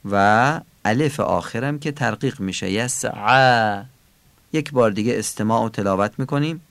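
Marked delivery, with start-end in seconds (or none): 2.7-3.8 یسعا drawn out slowly, throaty ayn, thin final a; thick ayn. Shown as a demonstration. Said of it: "غلیظ تلفظ".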